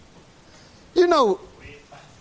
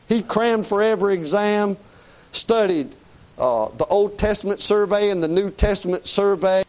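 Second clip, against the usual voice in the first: mounting preacher's rant, pitched up toward the end; impassioned preaching; 5 semitones higher than usual. Real, not acted. Preacher scorning a college-trained Bible corrector, impassioned preaching. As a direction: preach it as a driving, indignant list.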